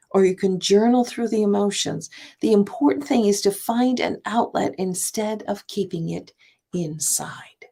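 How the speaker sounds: measured reading from her own book; reading aloud. Shown as a demonstration. Author to listeners, reading her book passage. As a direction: read the passage steadily. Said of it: "I want to read just a little bit".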